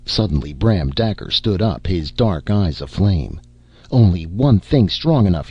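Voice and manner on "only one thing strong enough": louder, commanding bellow. Acted. Bram Daker bellowing to the panicking crew. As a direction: roar it over the chaos. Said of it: "he bellowed".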